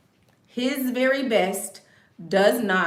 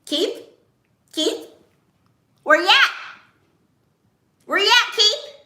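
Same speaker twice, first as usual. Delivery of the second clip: 1 calling out; 10 semitones higher, 4 dB louder than usual. Acted. Calling out for husband.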